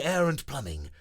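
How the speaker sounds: proud superhero slogan; Breezy hero voice. Acted. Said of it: "the voice yells back".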